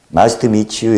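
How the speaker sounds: lightly Jeolla-tinged English greeting; Jeolla-accented English. Shown as a demonstration. Speaker showing viewers how his English turns out, light Jeolla accent. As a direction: say the English with a hint of Jeolla dialect. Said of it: "영어를 해도 전라도 사투리 같이".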